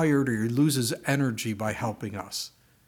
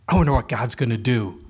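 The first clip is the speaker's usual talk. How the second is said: bright, cheerful; 6 dB louder than usual. Retold or imitated. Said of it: "her bright, cheerful smile".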